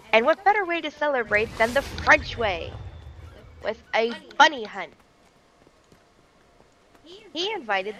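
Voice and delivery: storyteller with suspenseful pauses; theatrical history storytelling; dramatic story narration. Acted. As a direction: spin it like a grand tale, pausing before reveals.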